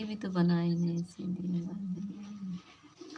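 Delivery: whispered aside, unvoiced. Real, not acted. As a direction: hush it so no one hears. Whispering about food. (धीमी फुसफुसाहट में)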